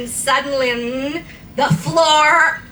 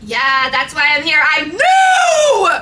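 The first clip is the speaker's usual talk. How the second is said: shout; 3 semitones higher, 3 dB louder than usual. Acted. Girl shouting in all caps at Satan. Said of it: "When I'm shouting".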